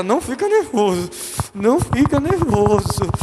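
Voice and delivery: tense self-talk, slowing on the repeat with hard exhales; acted nervous self-command. Preacher showing someone telling himself not to get nervous, tense. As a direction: psych yourself down and fail.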